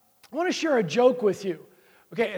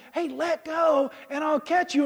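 God calling down; 6 semitones higher than usual. Retold or imitated. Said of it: "And God's saying".

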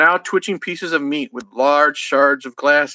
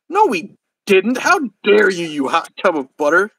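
mildly hammed-up outrage; mock rage; 3 semitones higher than usual. Jay denying to Willie, in mock rage. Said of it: "Jay raged".

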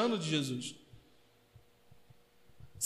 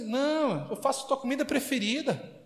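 higher, coaxing mock mother; imitating mother; 4 semitones higher than usual. Mother tempting her son home, higher mock coaxing. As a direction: sweeten the offer like a doting mom. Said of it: "Eu falo assim".

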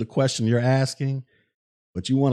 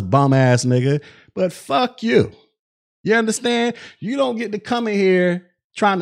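angry rant; 4 semitones higher than usual. Real, not acted. Ranting at rude donor.

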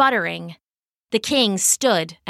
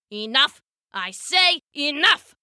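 mild theatrical king's outburst; understated mock scream from an enraged ruler; 4 semitones higher than usual. Enraged king cuts off his followers' grumbling, mock screaming. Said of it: "the king screamed".

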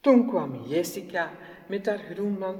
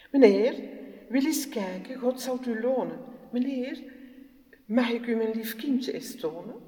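raised, pleading mother voice; humble pleading mother; 5 semitones higher, 4 dB louder than usual. Acted. Poor mother begs passers-by.

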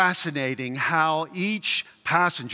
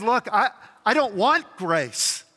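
higher-pitched mock insistence; acted protest; 5 semitones higher than usual. Preacher voices people refusing grace, stubbornly insistent. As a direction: refuse help in a raised, stubborn tone.

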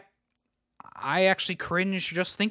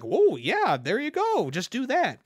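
higher, egging-him-on voice; mock encouragement; 7 semitones higher, slower than usual. Casting people urging the actor on, mock encouraging. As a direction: cheer him on, pitched up. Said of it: "And they're like".

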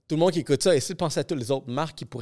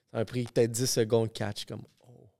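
ordinary delivery

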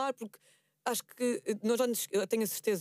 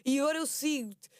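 gushing nonstop praise; 4 semitones higher than usual. Shown as a demonstration. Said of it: "se tu tiveres".

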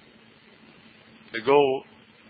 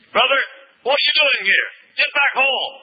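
scolding brother; 7 semitones higher than usual. Acted. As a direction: bark it down at the little brother. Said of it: "and said".

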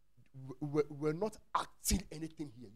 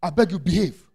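exasperated Peter; 10 dB louder than usual. Retold or imitated. Peter scolding Jesus about the crowd, exasperated. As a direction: scold like a fed-up disciple. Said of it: "He said".

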